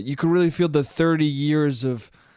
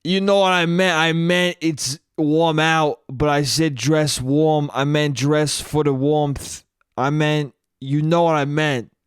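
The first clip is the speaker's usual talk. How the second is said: exhausted dad. Retold or imitated. Dad defends his slip to mom, mildly exhausted. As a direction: explain yourself like a worn-out husband. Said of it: "the exhaustion of my father".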